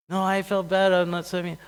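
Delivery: high, loud protesting daughter; acted protest. Daughter protests to her family.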